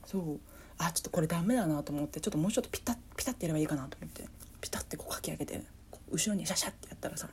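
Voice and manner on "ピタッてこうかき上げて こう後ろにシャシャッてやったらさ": fast, hushed words through stifled laughter; trying not to laugh, fast and hushed; stifled giggles. Real, not acted. Stifling laughter while telling.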